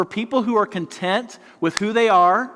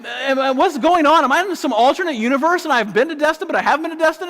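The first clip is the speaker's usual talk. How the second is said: laughing bewilderment; 9 semitones higher, 4 dB louder than usual. Retold or imitated. Retelling his confused panic.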